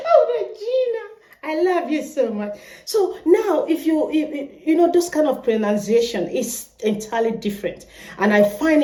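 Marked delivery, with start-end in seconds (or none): 0.1-2.6 mock Kenyan admirer. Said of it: "you start doing your hair like this".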